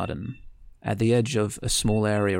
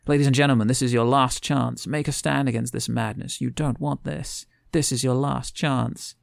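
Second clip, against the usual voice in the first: rallying speech; 4 semitones higher than usual. Retold or imitated. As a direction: address the crowd like a protest leader. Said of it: "she grabs a microphone and kind of says".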